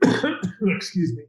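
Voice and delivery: coughing, clearing the throat; choking cough. Real, not acted. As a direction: cough and choke through it. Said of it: "which I'm choking on my enthusiasm".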